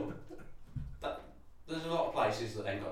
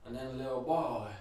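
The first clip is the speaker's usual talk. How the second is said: put-on doddering old man; 7 dB quieter than usual. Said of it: "he's just like".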